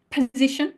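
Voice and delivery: position with an aspirated p; breathy p in position; English position. Shown as a demonstration. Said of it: "the same as an opera".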